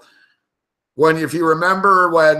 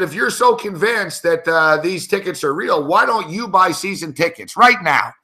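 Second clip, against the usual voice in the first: pissed-off challenge; 2 semitones higher than usual. Retold or imitated. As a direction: retell a challenge with a touch of anger. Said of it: "I finally got pissed off".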